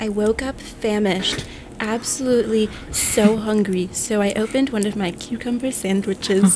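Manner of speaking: a lightly voiced influencer, slow and drawn; slow posh influencer voice. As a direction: mimic a plane lady vlogger, slow. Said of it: "she was like".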